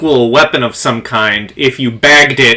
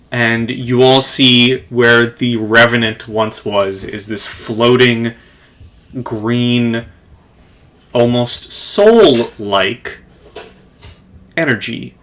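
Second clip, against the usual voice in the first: slow, measured scene setting; game master narration; slower than usual. Acted. Game master describes the revenant exploding to players, measured storytelling. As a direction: tell it with deliberate dramatic pauses.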